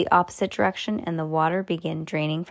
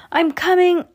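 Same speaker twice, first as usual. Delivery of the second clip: urgent call; 11 semitones higher, 6 dB louder than usual. A narrator's reading. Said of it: "said Sam".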